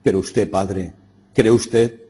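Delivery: temblorosa, subiendo de tono; trembling. A narrator's reading. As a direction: dare the question while afraid, voice rising. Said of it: "y toda temblorosa le dije".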